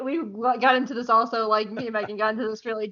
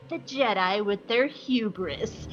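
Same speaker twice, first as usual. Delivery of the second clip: mock villainous boasting; 5 semitones higher than usual. Villain brags about his awesome plan, mock boastful. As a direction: gloat higher as the boast builds.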